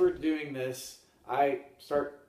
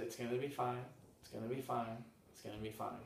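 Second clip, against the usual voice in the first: self-soothing mantra; 2 semitones lower, 9 dB quieter than usual. Retold or imitated. Traveler reassuring herself as things go wrong, soothing and hushed. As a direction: murmur it to yourself to stay calm, softer each time.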